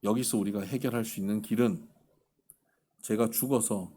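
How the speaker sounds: retold low, subdued confession; understated hopeless resolve; resolute despair. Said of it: "너무 단호한 거예요".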